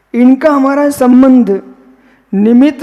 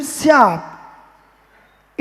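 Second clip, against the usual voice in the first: drawn-out syadvad; 5 dB quieter, much slower than usual. Shown as a demonstration. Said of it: "repeated word, said two ways".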